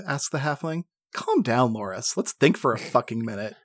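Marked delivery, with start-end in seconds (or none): 1.1-3.5 laughing, half-mock exasperated; exasperated snap. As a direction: tell him off through a laugh. Snapping at panicking halfling.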